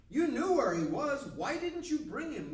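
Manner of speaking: high, loud interrogation; demanding. Acted. Priests question the officers sent to arrest Jesus, demanding. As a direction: scold them with the voice pushed up and out. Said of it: "the priests demanded".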